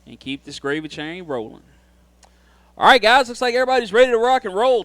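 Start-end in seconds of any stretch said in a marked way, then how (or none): 2.8-4.8 hyped up. Real, not acted. Hyping drivers before the start.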